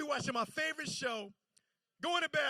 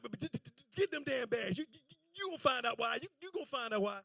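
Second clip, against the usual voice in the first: stuttering granddaddy; 4 dB quieter, faster than usual. Retold or imitated. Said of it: "'cause he get to stuttering".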